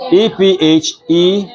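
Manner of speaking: name each letter slowly for the board; spelling letter by letter. Shown as a demonstration. Teacher spelling a word aloud to the class, letter by letter. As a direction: spell "ephemeral" as slow, separate letters. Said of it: "am I correct".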